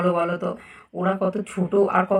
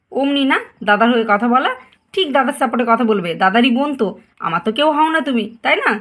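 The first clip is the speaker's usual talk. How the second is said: resentful jab; 3 semitones higher than usual. Acted. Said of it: "তুমি তো দেখছি ভীষণ রেগে আছো".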